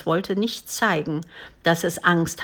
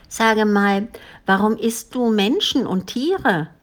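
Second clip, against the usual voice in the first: put-on higher, louder questioning child; a hint of a curious girl; lightly voiced little girl; 4 semitones higher, 3 dB louder than usual. A narrator's reading. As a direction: ask boldly like a small girl.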